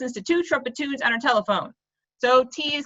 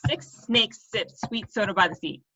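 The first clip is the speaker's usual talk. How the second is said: slow, deliberate recitation; 2 semitones lower, 3 dB quieter, slower than usual. Shown as a demonstration. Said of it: "There you go".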